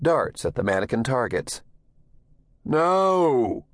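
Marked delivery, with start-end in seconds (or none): 2.6-3.7 sharp loud coach's no. Acted. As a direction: bark out a stern no. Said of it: "the coach said loudly".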